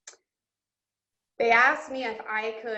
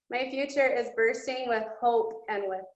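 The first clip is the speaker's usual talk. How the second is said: emotional. Real, not acted. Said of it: "I'm getting emotional telling you guys".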